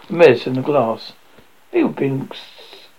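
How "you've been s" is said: panting between words; breathless from running; out of breath. A narrator's reading. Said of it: "she panted".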